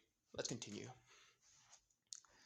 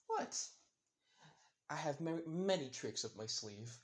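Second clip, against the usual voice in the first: playful squeak; 3 semitones higher than usual. Acted. Izuku playful reply.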